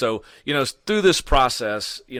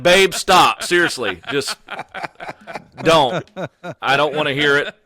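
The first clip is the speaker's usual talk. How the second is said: laughing protest; 4 semitones higher, 5 dB louder than usual. Retold or imitated. Begging wife to drop it.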